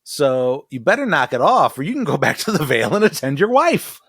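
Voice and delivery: laughing through a mock furious rant; mock angry rant. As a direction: tell him off, hammed-up fury. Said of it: "Masara's like".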